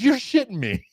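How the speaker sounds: high-pitched mock disbelief; incredulous. Craig reacting to referee's stoppage, high and incredulous. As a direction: imitate someone who cannot believe it.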